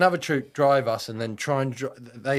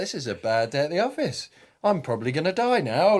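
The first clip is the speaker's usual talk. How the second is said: inner panic; 5 semitones higher, 3 dB louder than usual. Retold or imitated. Retold thoughts under fire.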